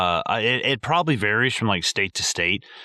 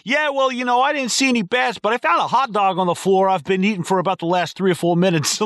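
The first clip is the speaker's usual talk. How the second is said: much higher, goofy voice of a clueless exterminator; dopey exterminator; 10 semitones higher, 3 dB louder than usual. Retold or imitated. Exterminator breezily reporting to the kids, high and dopey. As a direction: play him as an oblivious idiot, pitched way up.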